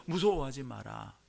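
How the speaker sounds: calm drop from loud preaching; gently reassure, at an everyday level; soothing. Acted. Angel comforting frightened shepherds, soothing. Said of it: "천사들이 목자를 달랩니다".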